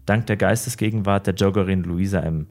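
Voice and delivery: measured, even crime-story reading; story narration. A narrator's reading. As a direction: read the dark tale steadily, like a true-crime narrator. Reads a crime story aloud.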